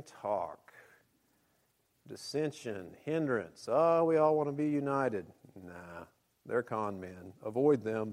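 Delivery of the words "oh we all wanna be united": high, loud mocking sweetness. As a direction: mimic naive ecumenists. Mocking the unity crowd.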